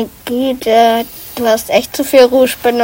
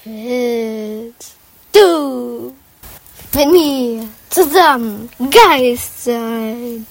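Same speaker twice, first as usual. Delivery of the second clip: slow eerie ghost voice; 2 semitones higher, much slower than usual. Pretend. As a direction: speak slowly like a ghost. Ghost voice speaking.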